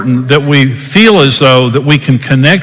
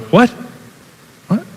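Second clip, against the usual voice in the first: frustrated; 8 semitones higher, 5 dB quieter than usual. Shown as a demonstration. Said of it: "I'm put out, I'm frustrated".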